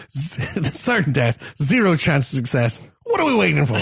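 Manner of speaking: mock dwarf battle cry, drawn out then lifting; John Rhys-Davies's dwarf. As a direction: quote the dwarf, building to an eager question. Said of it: "John Rhys Davies' dwarf saying that".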